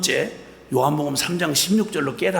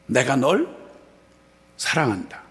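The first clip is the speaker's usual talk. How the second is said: tender words from God; 2 semitones lower than usual. Retold or imitated. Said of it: "하나님이란 분이 저한테 이렇게 표현하는 말로". (낮고 부드럽게 다정하게)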